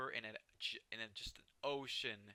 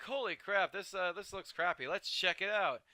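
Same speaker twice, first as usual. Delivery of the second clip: excited viewer; 5 semitones higher, 4 dB louder than usual. Retold or imitated. Imagined viewers reacting.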